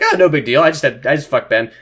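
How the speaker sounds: mock-casual, brushing it off; imitating someone totally blasé; weirdly chill. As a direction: play it oddly unbothered. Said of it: "Alice is weirdly chill about it".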